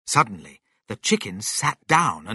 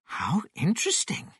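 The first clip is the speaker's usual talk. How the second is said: soft, high, quick musing; thinking to himself; 7 semitones higher, 6 dB quieter, faster than usual. A narrator's reading. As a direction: muse quietly, intrigued. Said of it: "thought George".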